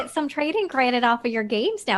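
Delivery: mock Southern clerk, lightly voiced; hammed-up friendly shop pitch, Southern; Southern accent. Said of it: "like, Southern".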